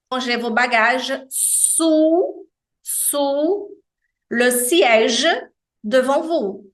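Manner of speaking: slow "sous" with a plain round U; slow French demo. Shown as a demonstration. Teacher reads a cabin announcement in slow French. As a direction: read it slowly, leaning on "sous". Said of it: "por exemplo".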